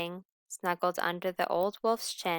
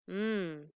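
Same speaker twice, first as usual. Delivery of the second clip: hungry mmm; 3 dB quieter than usual. Acted. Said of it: "he felt hungry".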